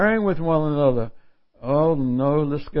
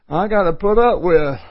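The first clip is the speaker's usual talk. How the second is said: much louder, higher burst of put up with; loud exclaim; 4 semitones higher, 8 dB louder than usual. Real, not acted. Preacher exclaiming the Greek meaning to the congregation, loudly. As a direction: blurt it out amused.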